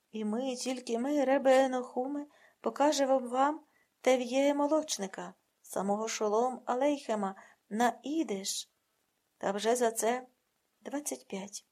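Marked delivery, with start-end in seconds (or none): 0.1-8.7 louder, ringing proclamation; proud boast. Acted. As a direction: announce it like a showman.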